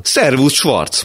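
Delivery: a high, loud, forced hello; loud greeting. Acted. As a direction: call out across the café too cheerfully. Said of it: "mondta hangosan". (hangos, magas, erőltetett köszönés)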